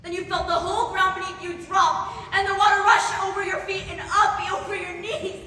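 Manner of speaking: urgent alarm. Acted. Survivor reliving the ground dropping and water rushing, urgent alarm. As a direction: drive it upward as the disaster hits.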